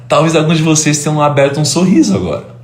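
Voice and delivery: smiling. Shown as a demonstration. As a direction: let a smile lift the voice. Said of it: "e sorrio".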